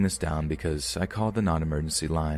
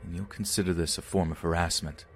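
Sea Cadet voice. Retold or imitated. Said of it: "I immediately went for my Sea Cadet voice".

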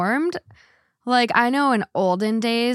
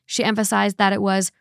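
measured, even first-person narration; reading a post aloud; 2 semitones lower than usual. A narrator's reading. Host reads listeners a man's post about his wife's birth plans, measured narration.

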